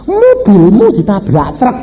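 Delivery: high, slow, drawn-out retold shout; wife's yell. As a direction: imitate a wife yelling out alarming news. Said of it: "Istri saya berteriak".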